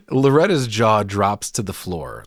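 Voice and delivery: ordinary talk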